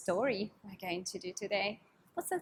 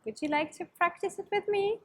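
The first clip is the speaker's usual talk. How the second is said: put-on bright, singsong voice for kids; cheery children's host; overbright kids party host; 2 semitones higher than usual. Kids yoga teacher greeting.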